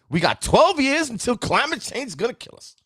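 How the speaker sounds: high, whiny mock of the doomsayers; exaggerated doom-and-gloom impression; mocking doom talk. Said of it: "everything we hear is".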